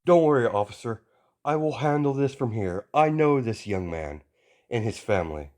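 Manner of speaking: put-on a booming hero lecturing a kid; stern hero voice. All Might reassures officer.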